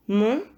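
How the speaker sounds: Montagne. in three separated syllables; measured Montagne., final gne sounded alone. Shown as a demonstration. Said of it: "ou troisième syllabe".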